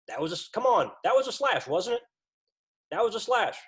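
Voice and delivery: hammed-up coach yelling about a slash. Coach yelling at the referee about a missed slash call.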